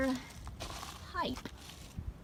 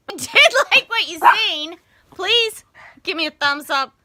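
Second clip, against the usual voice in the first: announcer voice; 7 semitones higher, 11 dB louder than usual. Acted. Mock announcer outro.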